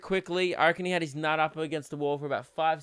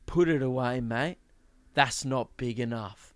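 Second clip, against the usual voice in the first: security lady; 4 semitones lower than usual. Retold or imitated. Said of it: "gets right up in his ear and goes".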